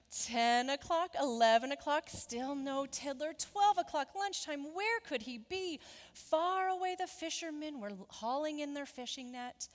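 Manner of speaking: punched, emphatic storytime counting; dramatic picture-book read-aloud; suspenseful story narration. A narrator's reading. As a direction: build the wait for young listeners. Narrates the anxious wait.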